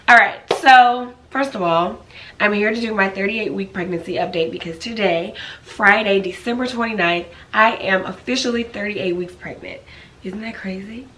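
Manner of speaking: raspy from a cold; hoarse, raspy sick voice. Real, not acted. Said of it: "why I sound so raspy".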